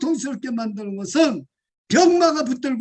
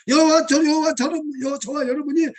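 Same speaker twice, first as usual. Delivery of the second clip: normal talking voice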